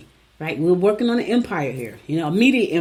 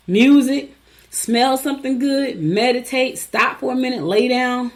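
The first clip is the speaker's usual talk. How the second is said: higher, punchy list; eager list of tips; 5 semitones higher, slower than usual. Acted. Host urging emotional Cancers, higher and punchy. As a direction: tick off each tip brightly. Listing calming tips emphatically.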